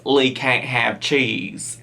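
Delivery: British attempt slipping into Southern; accidental Southern accent. Reactor quoting the mum on Lee, Southern accent creeping in. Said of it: "that was Southern".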